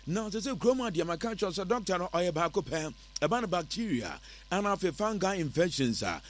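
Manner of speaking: animated live-read sales pitch; radio ad read. Acted. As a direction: pitch it to listeners in a lively radio voice.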